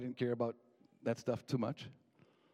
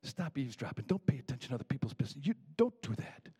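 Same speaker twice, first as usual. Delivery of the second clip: quick retold telling-off, firmer at the end; mild scolding. Grandpa catches grandson eavesdropping, mild retold scolding. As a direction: imitate a grandfather's mild scowl. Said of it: "he kinda scowled and he said".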